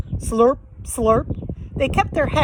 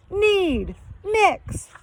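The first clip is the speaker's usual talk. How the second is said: shouted orders; 9 semitones higher than usual. Acted. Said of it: "Shaggy shouted".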